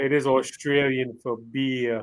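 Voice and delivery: slow, put-on Aussie drawl; Australian accent. Streamer quoting a beer slogan, mock Australian accent. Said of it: "I have a terrible Australian accent".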